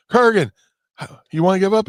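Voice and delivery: loud, high referee call; referee shout. Retold or imitated. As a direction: shout it like a ref in the ring. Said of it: "the referee goes".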